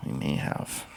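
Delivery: breathy whispered echo; whispering. Real, not acted. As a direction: drop it to a whisper. Echoing partner's doubt, unvoiced.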